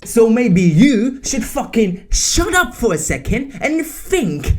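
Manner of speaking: real anger at misinformation spreaders; angry rant. Real, not acted. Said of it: "getting emotional and angry".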